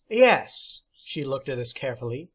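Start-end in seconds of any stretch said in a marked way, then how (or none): 0.1-0.8 high, louder teacher's voice; theatrical teacher. Acted. Substitute teacher praising John, high and theatrical. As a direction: play the odd substitute, grand and pleased.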